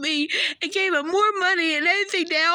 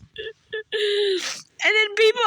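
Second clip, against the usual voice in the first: crying; 3 semitones higher, much slower than usual. Real, not acted. Breaking down mid-complaint.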